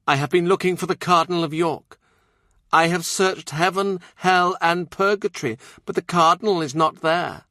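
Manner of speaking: high, intense visionary nun; prophesy with fervent certainty. Acted. Nun voiced again.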